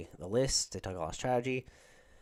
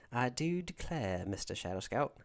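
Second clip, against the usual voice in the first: put-on Southern American accent. Streamer teasing a viewer, mock Southern accent. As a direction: draw it out in a playful Georgia twang. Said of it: "do a Southern American accent".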